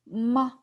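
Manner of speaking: a short, light "ma"; neutral tone. Shown as a demonstration. Teacher demonstrates the toneless syllable, kept short. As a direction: keep "ma" brief, with no tone contour. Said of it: "You make it short".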